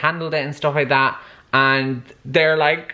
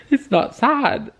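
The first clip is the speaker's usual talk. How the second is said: teary protest; 10 semitones higher, slower than usual. Real, not acted. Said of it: "I'm tearing up".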